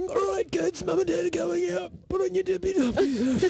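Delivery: put-on a parent sending the kids off in a high playful voice; mock mum voice. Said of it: "Was it like this?".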